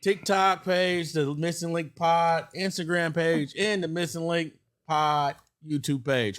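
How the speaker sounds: talking with gum in mouth; words mushed around chewing gum. Real, not acted. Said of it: "Well, I got the gum in my mouth".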